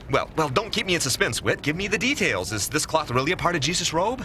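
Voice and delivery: eager, hurried questions tumbling out; breathless reporter firing questions; rapid-fire questioning. Acted. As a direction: press for details like an auctioneer. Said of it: "You sound like an auctioneer".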